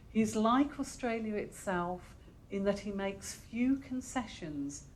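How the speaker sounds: measured read-aloud with pauses between phrases. Acted. Librarian reading an internet profile of the guest poet to an audience, measured read-aloud. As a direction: read it out phrase by phrase, leaning on key words.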